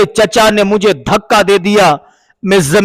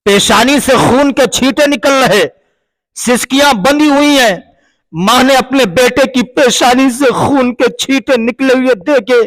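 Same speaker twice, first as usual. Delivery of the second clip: impassioned sermon climax; 3 semitones higher than usual. Acted. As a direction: lift the voice as the story peaks. Emotional climax of the told story.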